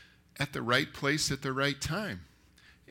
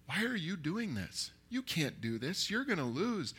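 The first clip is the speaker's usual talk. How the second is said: higher-pitched, swooping disbelief; worried movie friend; 4 semitones higher, 4 dB quieter than usual. Acted. Friend warning a kid before a fight, incredulous. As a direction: talk a friend out of it, voice lifting. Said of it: "it is, they go".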